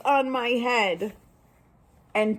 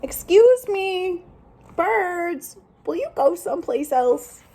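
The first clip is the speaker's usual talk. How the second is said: polite request; 7 semitones higher than usual. Acted. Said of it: "I will try asking".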